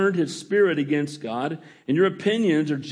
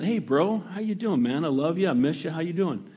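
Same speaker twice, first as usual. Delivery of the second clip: friendly texting tone. Acted. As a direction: say it casually, like texting a buddy you miss. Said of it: "You never know the tone of voice".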